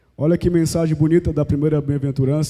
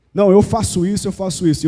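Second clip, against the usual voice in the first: self-righteous boasting; 3 semitones higher than usual. Retold or imitated. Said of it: "ele vive a religião do eu faço".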